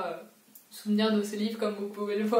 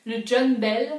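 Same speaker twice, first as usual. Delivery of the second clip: a touch louder, rising English ship name; English accent attempt; 6 dB louder, slower than usual. Shown as a demonstration. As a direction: say John Bell the English way with a bit of push. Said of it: "le seul que je sais prononcer".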